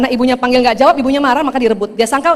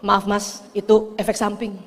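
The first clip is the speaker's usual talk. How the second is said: lower, softer mock apology; soft, understated excuse; meek retort; 5 semitones lower, 7 dB quieter, slower than usual. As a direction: answer the husband softly and drily. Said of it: "Saya kalau suami bilang".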